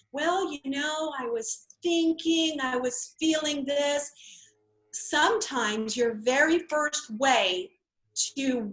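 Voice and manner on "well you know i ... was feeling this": 1 hesitant nervous seller. Acted. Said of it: "hesitating when they're talking".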